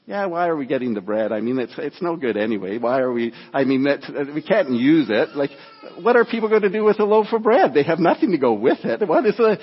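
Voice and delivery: mildly acted grumbler's complaint; mock griping; grumbling. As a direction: grumble through it, half playing the complainer. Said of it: "that grumble about everything".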